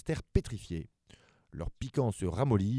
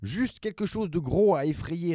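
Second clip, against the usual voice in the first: lightly higher sly reply; kid monster; 7 semitones higher than usual. Acted. Affreuse answering her brother, a hint of mischief. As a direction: suggest mischief with a grin. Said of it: "répondit Affreuse".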